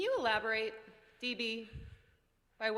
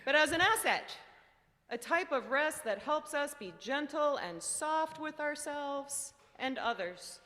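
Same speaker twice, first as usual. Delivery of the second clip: lightly voiced sleepy monster puppet; gently explain, as a wise monster would; a hint of puppet lilt, unhurried.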